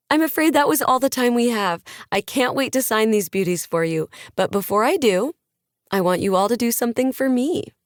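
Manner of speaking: pep the audience up like a lifestyle guru; a hint of a motivational influencer addressing fans; upbeat influencer on stage. Maddie wraps up the talk.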